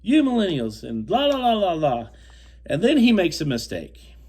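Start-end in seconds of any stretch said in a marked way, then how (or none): 0.0-2.1 mocking Bob. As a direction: parody his rant as high babble. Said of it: "He goes".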